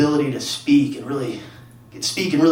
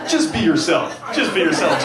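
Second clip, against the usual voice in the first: mock white guy advice; 2 semitones higher than usual. White friend handing a struggling dater advice, mildly mocking.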